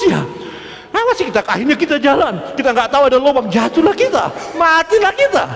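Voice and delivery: high-pitched, worked-up comic rant; agitated fretting. Acted. Preacher acting out someone brooding over gossip, agitated.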